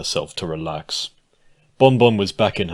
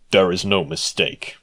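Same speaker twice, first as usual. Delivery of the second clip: flat statement. Acted. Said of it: "the guard stated flatly".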